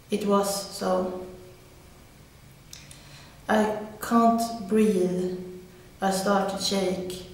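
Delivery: measured recital in short, paused phrases; poem reading. Acted. Woman reading her own poem about struggling, poem reading. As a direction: read it as verse, pausing after each line.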